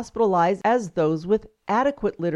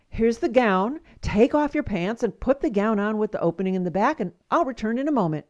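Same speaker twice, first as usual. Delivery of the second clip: mildly irritated repeat; nurse's understated exasperation, last part hurried; slight irritation; 2 semitones higher than usual. Acted. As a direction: repeat it with a touch of impatience. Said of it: "with a slight irritation repeats herself".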